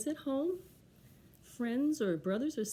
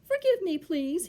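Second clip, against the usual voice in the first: mild, higher-pitched polite plea; asking nicely; 9 semitones higher, 8 dB louder than usual. Acted. Bear turns to his forest friends, asking nicely. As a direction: ask forgiveness nicely. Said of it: "he nicely said".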